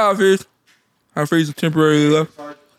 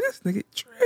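incredulous; 7 dB quieter than usual. Retold or imitated. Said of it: "I was like".

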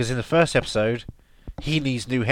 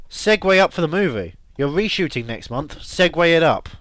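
raised, punchy call; mock yelling; 4 semitones higher, 4 dB louder than usual. Host urging the show's maker to listen, jokey yelling. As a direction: holler it as a plea to the producer. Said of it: "We're yelling about you".

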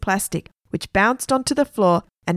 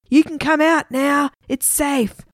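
high, called-out shout; 7 semitones higher, slower than usual. A narrator's reading. Margaret calling from the crocodile's mouth, shouting. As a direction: call out in a raised pitch. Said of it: "and she shouted".

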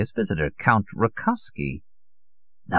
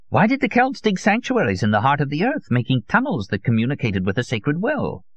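put-on higher, insistent old man's voice; obsessive old conspiracist; 9 semitones higher than usual. Old Solon lectures his visitor on underground plots, insistent conspiracist. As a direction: expound a secret truth as if self-evident.

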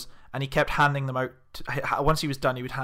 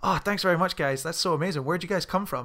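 put-on Californian accent; 2 semitones higher than usual. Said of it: "like, very strong accent".

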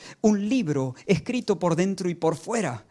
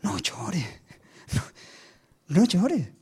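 hushed consoling; 2 semitones higher, much slower than usual. Acted. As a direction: soothe someone in tears, barely voiced. Elder gently consoles weeping John.

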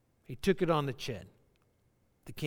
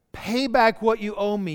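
louder, forceful demand to pay the debt; 3 semitones higher, 6 dB louder than usual. Acted. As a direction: snap out the demand like a creditor. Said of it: "he demanded".

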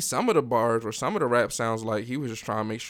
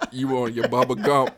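laughing; 4 dB louder than usual. Real, not acted. Joking about grill underbite.

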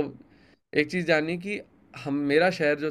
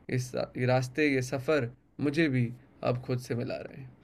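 poem recitation; 2 semitones lower than usual. Acted. Poet reciting his poem to the interviewer, measured recital.

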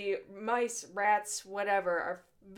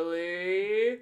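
Kristen Wiig's Gilly; 3 semitones lower, 4 dB louder than usual. Retold or imitated. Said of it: "Kristen Wiig going".

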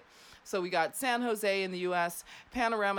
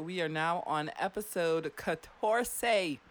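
sassy attitude; slower than usual. Real, not acted. Host slowly tossing off a Spanish number with attitude. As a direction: draw out catorce with sass. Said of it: "I don't know why I said it with such an attitude".

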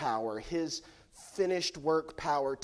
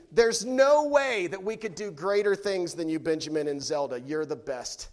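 put-on kids' reply; 6 dB louder than usual. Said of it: "they would say".

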